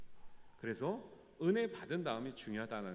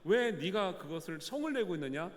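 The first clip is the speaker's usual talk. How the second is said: rising to louder, higher rebuke; imagined divine reproach growing louder; angry God; 4 semitones higher, 5 dB louder than usual. Pretend. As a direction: scold Jonah, building with each question. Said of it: "하나님이 더 화를 내야 될 텐데".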